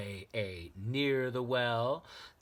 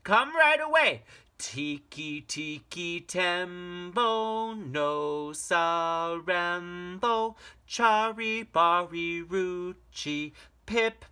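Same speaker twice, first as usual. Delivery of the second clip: high, loud, hurried call; urgent shout; 8 semitones higher, 8 dB louder, slower than usual. Acted. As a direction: beg him to come now. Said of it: "shouted Chang".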